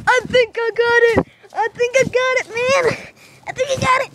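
bouncing while talking; on a trampoline. Real, not acted. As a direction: voice jolted by jumps. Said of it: "we're on the trampoline".

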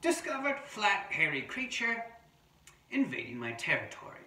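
amateur Australian wombat narrator; attempted Australian accent. Adult reading a wombat's diary to children, pretend Australian accent. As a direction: read the terse diary in a makeshift Australian voice. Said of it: "I'm trying to do my Australian voice".

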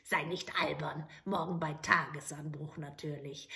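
a hint of a scornful old hag; old witch. Old witch brushing off the soldier, lightly voiced.

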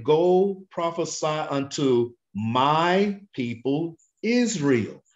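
"Go" lifted and stretched, slow; stress on go. Shown as a demonstration. Preacher rereading the verse slowly. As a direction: read "Go prophesy" slowly. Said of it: "We just read".

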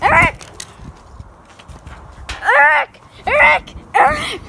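loud, high calls of a name; calling out to Eric loudly. Real, not acted. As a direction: call across to a friend.

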